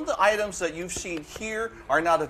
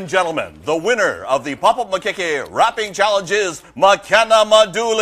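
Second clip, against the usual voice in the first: announcer voice; 5 dB louder than usual. Acted. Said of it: "say in your announcer voice".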